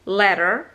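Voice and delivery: "Letter" with T tapped like D; American "Letter". Shown as a demonstration. Teacher shows American "Letter" sounding like ladder. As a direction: say "Letter" nearly as "ledder". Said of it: "pengucapannya mirip-mirip".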